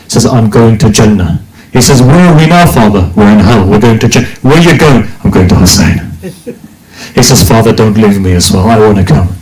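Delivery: low, sorrowful storytelling; hushed grieving recitation. Acted. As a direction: let the voice sink as the son pleads. Grieving dialogue of Hur.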